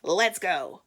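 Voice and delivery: loud goose-like honk; short storybook goose call. Acted. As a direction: honk it out loudly.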